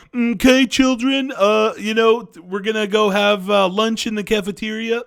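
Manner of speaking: cartoonish school counselor character voice. Showing how a South Park character talks to children, Mr. Mackey impression. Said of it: "I don't know if you guys like my impression there".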